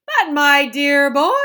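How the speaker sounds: high, loud, slow cry of delight; excited Wonka. A narrator's reading. Wonka crying out to Charlie in delight. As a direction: burst out with joy. Wonka voiced in read story.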